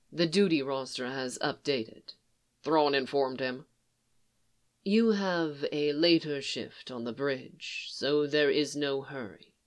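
even, composed commander speaking gently; a lightly voiced Thrawn, calm; Thrawn, calm and measured. Thrawn voiced low and soft.

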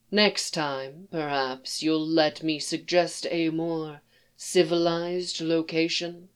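quiet, measured aristocratic voice; cool, polite, faintly condescending; composed alien diplomat. Acted. Thras character voice.

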